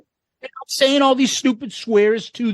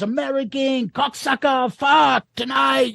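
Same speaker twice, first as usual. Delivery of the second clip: higher, half-shouted jeers from the cells; prisoners shouting; 5 semitones higher than usual. Retold or imitated. Inmates jeering at the American, mock shouted. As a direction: call out like caged prisoners taunting.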